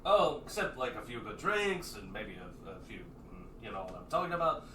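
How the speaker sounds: high, loud party-brother excuses; defensive Lupe. Acted. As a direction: talk your way out of it, grinning.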